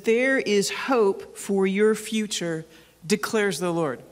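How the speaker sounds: slow solemn reading of the verse; deliberate pulpit reading; scripture reading. Acted. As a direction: read each word slowly, like holy scripture. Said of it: "It says".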